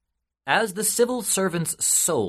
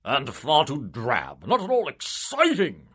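pompous official; 3 semitones higher than usual. Acted. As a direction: puff up like a smug politician. Civil servant scoffs.

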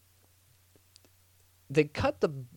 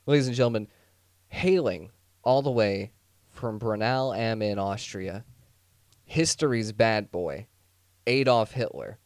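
mock announcer intro. Mock boxing-ring introduction.

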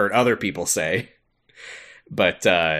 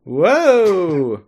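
high, loud yelp of alarm; startled; 10 semitones higher, 6 dB louder than usual. Real, not acted. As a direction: nearly fall off the desk. Wobbling on the desk.

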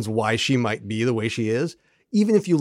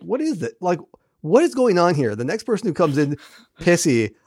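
lightly voiced exasperation, a bit higher; a touch of theatrical grumbling; mock complaining; 4 semitones higher than usual. Retelling Sheridan fed up with everybody being cranky, mildly exasperated. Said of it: "where he's, like, complaining that".

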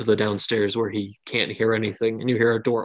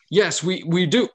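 put-on higher squeaky kid voice; eager young kid, voice pitched up; 7 semitones higher than usual. Squeaky Erlade eagerly answering the Baron. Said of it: "the squeaky kid".

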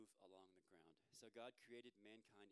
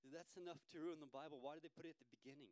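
much higher, louder and faster, amazed; incredulous exclaim; 7 semitones higher, 9 dB louder than usual. Real, not acted. Preacher amazed to the congregation by a bold quote, loud and incredulous. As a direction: hit the absurdity hard.

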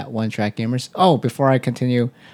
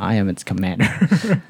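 low, mock-imperious proclamation; lordly, in a lowered voice; high and mighty; 4 semitones lower than usual. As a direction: declare supreme command, playfully pompous. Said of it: "high and mighty over there".

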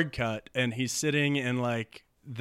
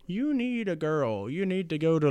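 nagging mom; 6 semitones higher than usual. Acted. Mom telling her son to find a girl, high nagging voice. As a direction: draw it out as an insistent, high mom. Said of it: "his mom's like".

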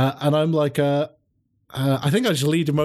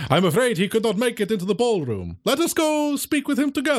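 higher, formal character voice; raised, mannered host voice; courteous vampire host; 7 semitones higher than usual. Acted. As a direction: invite politely in a lifted, theatrical voice.

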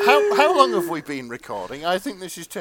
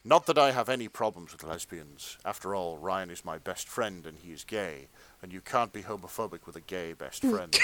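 earnest, measured erotica read; fan fiction narration; 7 semitones lower, 3 dB quieter than usual.

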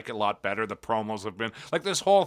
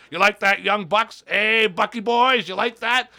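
higher, loud mock taunt; Jericho; 6 semitones higher, 4 dB louder than usual. Champion needling the Young Bucks, imitated brash promo voice. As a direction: goad them like a cocky wrestler. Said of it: "just cut this promo on everybody".

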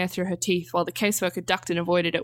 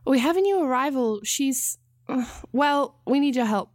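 Ansel's voice; 6 semitones higher than usual. A narrator's reading. Ansel voiced in read story.

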